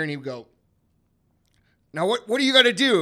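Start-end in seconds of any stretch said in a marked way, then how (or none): 1.9-3.0 loud, high call for a response; rallying dad. Retold or imitated. Dad to his kids in the back seat, rallying call. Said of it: "he would say, he'd look in the mirror".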